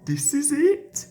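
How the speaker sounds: a pleased little chortle; chortling. A narrator's reading. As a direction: gloat happily as you get the shot. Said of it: "he chortled".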